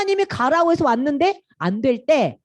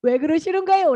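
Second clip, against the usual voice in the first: high, plaintive mock complaint; acted Moses demanding an explanation; protesting to God; 8 semitones higher than usual. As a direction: plead and argue upward in a raised voice. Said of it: "하나님께 따졌어요".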